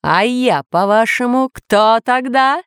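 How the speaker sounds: rising, drawn-out indignant question; mocking villain. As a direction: challenge them, stretching the end upward. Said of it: "громко смеялся повелитель".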